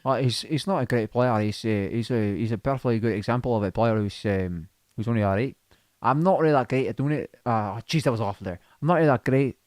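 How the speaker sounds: hesitant, rambling Scottish accent; self-doubting go at Scottish; attempted Scottish accent. Shown as a demonstration. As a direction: fumble through a Scottish accent. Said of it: "can you do Scottish?".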